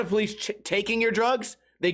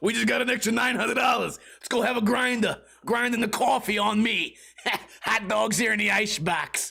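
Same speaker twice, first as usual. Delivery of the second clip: put-on New Jersey accent; 2 semitones higher than usual. Imitating California cops celebrating extra pay: imitating cops with New Jersey accent. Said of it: "California cops sound like New Jersey".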